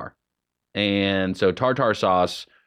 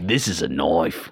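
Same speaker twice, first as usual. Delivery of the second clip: put-on broad Australian accent; 8 semitones lower than usual. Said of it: "Oh, I like your outback voice".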